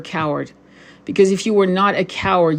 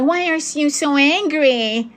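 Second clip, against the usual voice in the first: slow, high-pitched mocking imitation; mocking critic; 8 semitones higher than usual. Livestream host imitates men questioning women's anger, high mocking voice. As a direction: mimic a whiny objection, high and drawn out.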